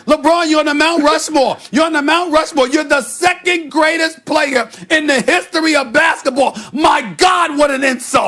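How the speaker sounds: sarcastic outrage. Acted. Sarcastic mock outrage continues.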